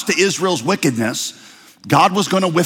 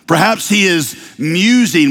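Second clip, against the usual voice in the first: mocking; 2 semitones higher than usual. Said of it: "Elijah mocked them".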